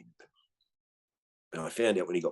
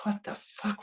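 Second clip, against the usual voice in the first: incredulous retort; 13 semitones higher, 3 dB quieter, slower than usual. Retold or imitated. Retold reaction to friend.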